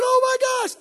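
high, loud cry of alarm; acted panic. Driver seeing the car coming, loud panicked cry. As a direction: yelp in panic as if about to be hit.

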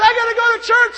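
high, loud comic declaration; husband loudly insisting he must go to church; mock announcement. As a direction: play it big for laughs. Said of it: "I said".

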